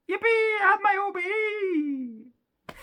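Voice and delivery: high, loud slow yippee; squealing with hammed-up joy; mock triumph. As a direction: cheer it out like a kid winning. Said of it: "celebrating OBE".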